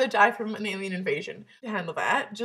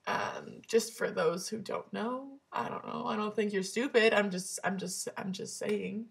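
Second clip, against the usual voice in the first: hushed aside; 6 dB quieter than usual. Real, not acted. Quiet aside to viewers.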